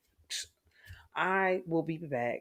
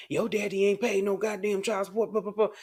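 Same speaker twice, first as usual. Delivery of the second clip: mocking bitter mother; 5 semitones higher than usual. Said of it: "We the ones get to talking that bullshit".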